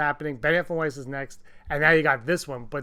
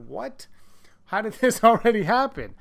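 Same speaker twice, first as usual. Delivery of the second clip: surprised disbelief; 5 semitones higher, 3 dB louder than usual. Retold or imitated. Fans reacting to announcement.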